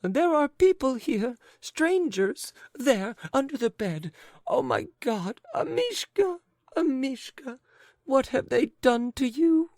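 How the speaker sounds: very high, loud crying wail; wailing lady. A narrator's reading. Lady crying over her dog, very high and loud. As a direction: sob for the dog.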